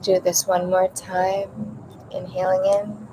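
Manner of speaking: calm breathing guidance with long pauses; guided meditation. Acted. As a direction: ease listeners into each breath, unhurried.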